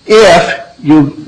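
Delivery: "if" weighted to make the condition plain; stress on if. Shown as a demonstration. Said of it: "and I emphasize the word if".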